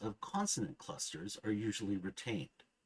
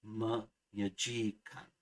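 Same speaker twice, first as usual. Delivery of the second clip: "menyajikan" drawn out slowly, syllable by syllable, with a faint swing; slow, even "menyajikan", softly accenting every other syllable; soft alternating accents; much slower than usual. Shown as a demonstration. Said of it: "softly accented".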